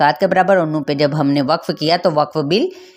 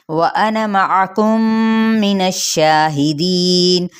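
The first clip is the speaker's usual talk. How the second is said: slow, drawn-out tajweed reading; measured recitation of व अना मअकुम; slow Quranic recitation; much slower than usual. Shown as a demonstration. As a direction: stretch each syllable like tilawat. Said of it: "तो फिर हम पढ़ेंगे".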